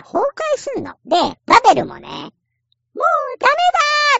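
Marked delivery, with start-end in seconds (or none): 2.9-4.2 dying wail. Retold or imitated. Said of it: "とか言って".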